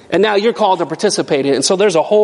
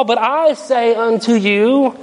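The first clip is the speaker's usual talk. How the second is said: defiant; 2 semitones higher, slower than usual. Retold or imitated. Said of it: "would have sounded rather defiant".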